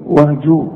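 وهجو with a voweled ج, plain ju; no qalqalah. Shown as a demonstration. Teacher showing the first jim, unbounced وهجو. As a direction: open the j of وهجو into u without echo. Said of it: "مفيش قلقلة".

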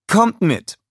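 high, loud summons; calling along. A narrator's reading. Scarlett leading Minions into the palace, high call. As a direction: briskly call them to follow.

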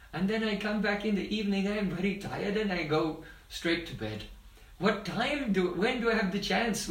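mildly indignant storytelling voice; protesting innocence. Retold or imitated. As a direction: plead innocence as the accused boy, lightly acted. Child protesting innocence to mother.

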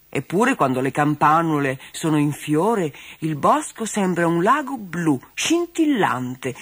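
slow, lingering toy cat voice; dreamy toy cat. Acted. Plush cat Bobo dreamily describing the bluebell woods, slowing right down. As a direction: savour each word, slowing down. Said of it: "le diceva Bobo".

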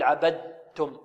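عبدتم as "abad-tum", with audible d; wrong voiced pron. Shown as a demonstration. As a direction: voice the د before ت in عبدتم. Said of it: "وهذا خطأ".

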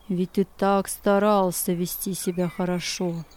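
low insinuating tempter voice; mock him with \"старался\" in a low, coaxing tone; evil spirit whispering. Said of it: "Злой дух стал нашептывать ему".

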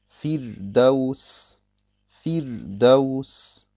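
Firdaus mit hellem R nach dem i; helles Ra. Shown as a demonstration. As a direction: sprich das R in Firdaus hell. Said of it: "dann wird das Ra hell ausgesprochen". (Firdaus gedehnt, mit hell gefärbtem Ra)

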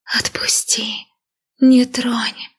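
slow whispered ghost cries; faint voices of the dead; eerie whispered pleas; ghostly voices. A narrator's reading. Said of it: "обрывки их фраз".

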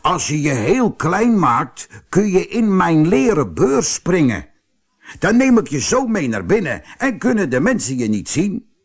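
high, coaxing figure voice; crafty cobbler Tim. Acted. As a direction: coax him into it, pitched high. (sluwe, overredende Tim met hogere stem)

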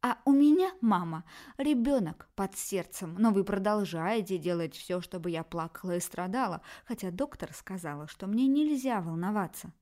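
loud opening, then bitter complaint; reproachful daughter. Acted. Daughter reproaches her mother about the baby, bitter.

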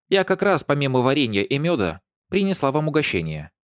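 put-on high, gushing old neighbour; lightly voiced chatty old lady. A narrator's reading. (восторженная старушка)

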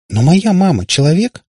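high, loud incredulous question; exclaiming. A narrator's reading. Katya defends her mother's humanity, exclaiming. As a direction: cry it out in protest, rising. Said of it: "воскликнула Катя".

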